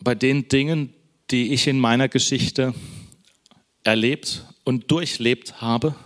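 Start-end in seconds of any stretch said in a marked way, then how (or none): 3.8-5.9 slow phrase, with the weight landing on "durchlebt"; preacher stressing "durchlebt" over "erlebt". Real, not acted. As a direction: lean hard into "durchlebt", slowly. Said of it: "die Betonung liegt auf Durchleben".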